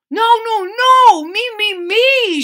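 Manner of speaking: high loud me-me-me shout. Acted. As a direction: demand it like a pushy child. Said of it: "shouted Orange Maple".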